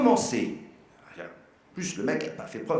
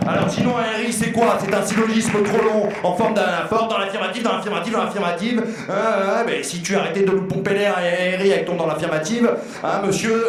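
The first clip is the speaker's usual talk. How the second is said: mock indignant roast; 3 semitones higher, 4 dB louder than usual.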